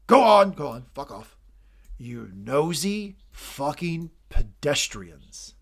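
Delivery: slow, drawn-out sneer; contemptuous dismissal. Acted. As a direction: shoo them off with scorn. Logan dismissing the kids.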